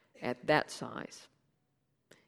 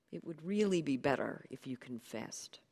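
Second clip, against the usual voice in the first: whispered urging. Acted. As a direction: lean in and whisper it. Narrator gently urges a confession.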